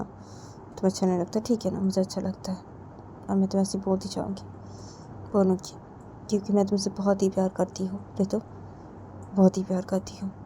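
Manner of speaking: soft, even-pitched declaration of love; tender confession. Acted. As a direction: confess it gently and quietly. Acted love confession, softly insisting. (धीमी आवाज़ में प्यार का इज़हार)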